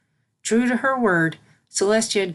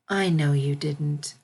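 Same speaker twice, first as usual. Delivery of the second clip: slow, lower, gentle reassurance; consoling; 3 semitones lower, slower than usual. Acted. Celestia consoling her guilty student, slow and gentle. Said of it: "consoled Celestia".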